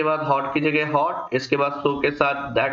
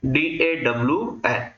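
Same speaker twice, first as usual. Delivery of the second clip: slow spelling out; slower than usual. Shown as a demonstration. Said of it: "इसी के लिए word हम use करते हैं डॉन".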